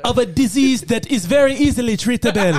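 put-on African accent, cheerfully matter-of-fact. Pickle seller sharing his illness, African accent. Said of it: "got to do that accent".

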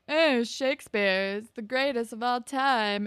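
lightly voiced, mock prissy teacher; a hint of a teacher gushing over Shakespeare; Ms. Kwan impression. Student mocking his teacher in class, lightly hammed. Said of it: "pretends to be Ms. Kwan".

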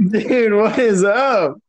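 high, bright excited hello; excited greeting. Real, not acted. Excited reunion greeting on podcast.

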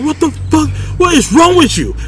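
high-pitched exasperated rant; imitating yelling doctor. Doctor berating a patient, imitated high-pitched yelling. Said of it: "the doctor started yelling at me".

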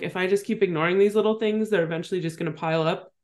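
talking through hiccups; hiccuping between words. Real, not acted. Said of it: "Sorry, I have the hiccups right now".

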